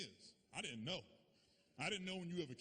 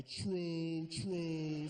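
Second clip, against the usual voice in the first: louder, cocky true true; cocky mock agreement, louder; smug agreement; 6 dB louder than usual. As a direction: accept the praise like a boss.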